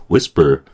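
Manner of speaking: "whisper" as WIS-per, second syllable killed; stress on first syllable. Shown as a demonstration. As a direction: hit the front of "whisper", swallow the end. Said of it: "앞에 있는 거 세게 해주고요".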